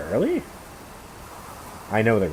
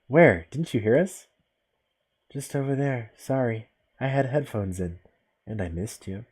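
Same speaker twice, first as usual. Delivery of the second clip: put-on deadpan, emotionless girl voice; 3 semitones higher, slower than usual. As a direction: say it with no feeling at all. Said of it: "No emotion whatsoever".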